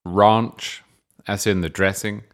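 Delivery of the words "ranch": "Ranch" in a British voice, with a long "ah"; British pronunciation. Shown as a demonstration. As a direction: say "Ranch" as rahnch. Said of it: "confused by my pronunciation".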